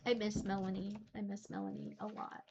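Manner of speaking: quiet, teary confession; tearful. Real, not acted. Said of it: "see the tears in my eyes".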